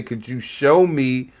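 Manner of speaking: slow, polished and measured; professional phrasing. Shown as a demonstration. Streamer shows Jasmine how a professional would ask, slow and measured. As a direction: model the proper way to ask, slowly. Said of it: "You might wanna say".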